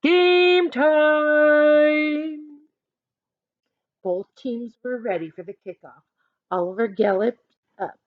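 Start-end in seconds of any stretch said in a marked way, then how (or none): 0.0-2.5 loud high referee call; yell. A narrator's reading. Referee Jake starting the game, loud yell. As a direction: call it out to both teams. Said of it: "Jake looked at his watch and yelled".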